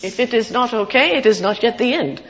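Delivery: quoting the film character. Retold or imitated. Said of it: "he says the line".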